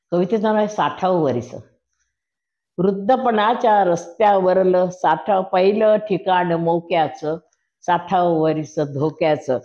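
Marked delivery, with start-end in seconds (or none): 2.8-9.6 slow, weighty poem reading; poem recital. Acted. Reciting her poem about turning sixty, slow and weighty. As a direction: lean into each phrase of the poem.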